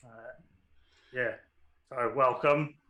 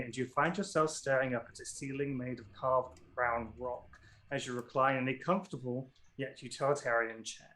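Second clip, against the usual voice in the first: quiet scene narration; 4 dB quieter than usual. A narrator's reading. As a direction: let the world freeze, softly.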